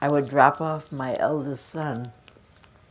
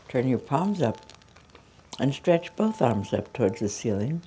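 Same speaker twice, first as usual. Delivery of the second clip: yoga cues. Retold or imitated. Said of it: "And I'd say to those people".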